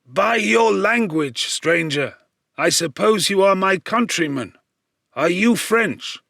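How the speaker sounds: lightly voiced old man, curious; gentle old man's voice asking; old blind man. A narrator's reading.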